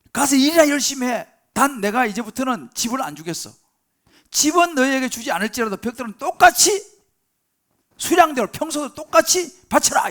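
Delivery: angry royal command, loud and high. Acted. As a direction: order the slaves back to work, furious. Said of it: "바로 화가 나갖고". (화가 나서 높고 크게 명령하듯)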